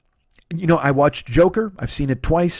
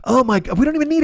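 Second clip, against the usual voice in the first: much higher, exasperated "who cares"; mock incredulous exasperation, pitched way up; exasperated outburst; 11 semitones higher than usual. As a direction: throw up your hands at the fuss. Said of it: "I'm like".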